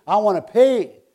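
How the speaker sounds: a touch of hammed-up glee; excited, happy. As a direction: gush like a man overjoyed to pay. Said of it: "He's so happy".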